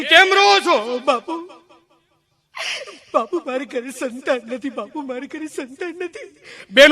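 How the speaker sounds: acted weeping scene. Weeping woman and saint acted.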